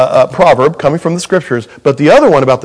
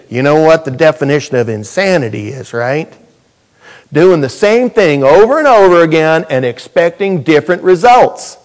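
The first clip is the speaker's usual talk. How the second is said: put-on southern accent. Preacher mocking a cliché to the congregation, in a mild Southern accent. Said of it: "You have to do it with a southern accent".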